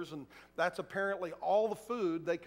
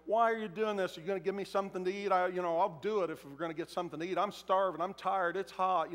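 complaining crowd member. Acted. Hungry crowd member voiced.

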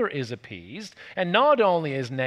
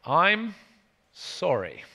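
gentle apology; much slower than usual. Shown as a demonstration. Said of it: "one of the softest, gentlest things we can say".

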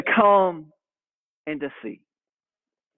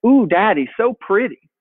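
lightly voiced little girl cooing; a hint of an admiring toddler; 4 semitones higher, 4 dB louder than usual. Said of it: "she started saying".

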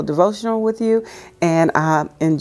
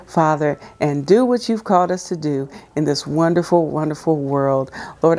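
prayer. Real, not acted. Leads a prayer.

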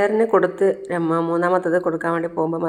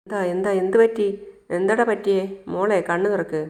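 higher, urgent worried questioning; alarmed mother; 4 semitones higher than usual. Acted. Mother to her fallen child Malar, alarmed. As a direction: call to her in rising alarm.

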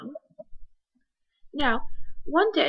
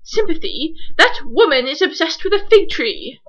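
exasperated shout; 3 semitones higher, 7 dB louder than usual. Acted. Ernie loses his temper.

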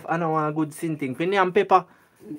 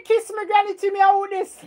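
squeaky put-on voice; 12 semitones higher than usual. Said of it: "change me voice".

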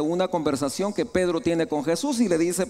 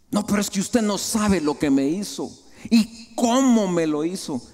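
indignant objection; 3 semitones higher than usual. Acted. Preacher voices a wronged believer refusing to forgive, indignant objection. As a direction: protest like someone nursing a grievance.

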